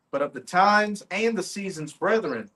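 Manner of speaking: declaimed Bible verse; scripture reading. Real, not acted. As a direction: read the verse out firmly to a crowd. Reads scripture aloud.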